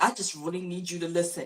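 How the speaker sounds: soft, restrained plea; controlled normal tone. Shown as a demonstration. Asking someone to listen, keeping a soft controlled tone. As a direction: press the point without raising the voice. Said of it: "in the normal tone like that".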